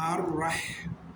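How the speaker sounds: আর রহমান drawn out slowly with a heavy রা; slow recitation. Shown as a demonstration. Teacher demonstrating the heavy রা, slow recitation. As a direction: stretch আর রহমান, the রা said full and heavy. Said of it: "তাজবিদ আমরা পাই".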